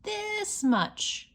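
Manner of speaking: high, eager little bunny; little hare voice. Acted. Little hare showing his father how much he loves him, high. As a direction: squeak it out like a small excited hare. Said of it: "said Little Nut Brown Hare".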